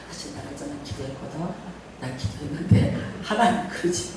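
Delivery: low, soft coaxing; gentle persuasion. Retold or imitated. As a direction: calmly talk them down. Pastor retells calm talk with member.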